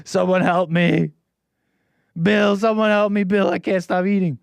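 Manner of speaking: hammed-up plea for help; mock crying glutton. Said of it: "He's just like".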